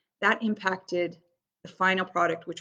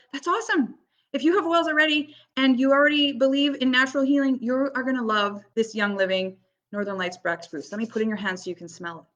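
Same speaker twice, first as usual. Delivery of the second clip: excited; 4 semitones higher than usual. Retold or imitated. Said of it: "And I go".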